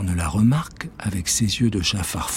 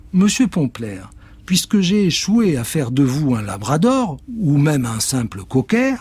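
un peu plus haut, posée; s'excuse poliment; sorcière polie; 5 semitones higher than usual. Acted. Witch polite. (la sorcière s'excuse auprès du chat)

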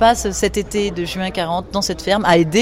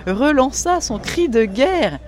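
ordinary talk

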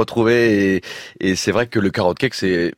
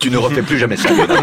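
mock scolding; 3 semitones higher, 3 dB louder, faster than usual. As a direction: tease him like a strict aunt. Teasing scolding of the young baker.

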